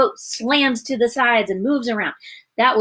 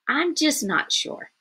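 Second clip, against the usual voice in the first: slow, higher, uncertain; voiced doubt; 5 semitones higher, 3 dB quieter, slower than usual. Doubt speaking in the teacher's example, hesitant and unsure. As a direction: waver as if unconvinced. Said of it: "doubt says".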